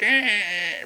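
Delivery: short high nasal-free squawk of a bad voice; mock crap voice. Mocking the actress's bad voice with a squawk. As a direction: honk out a brief ugly sound. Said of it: "had a voice like".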